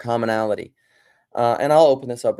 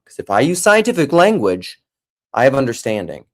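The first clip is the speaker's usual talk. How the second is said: mock pompous; 2 semitones higher, 7 dB louder than usual. Mocking his own pretension.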